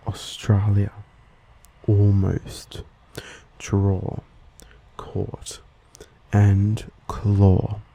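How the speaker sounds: Australian rounded "aw" in "draw" and "claw"; Australian accent. Shown as a demonstration. Host listing examples as an Australian, Australian accent. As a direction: say each word with the Australian O-like vowel. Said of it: "When spoken by an Australian".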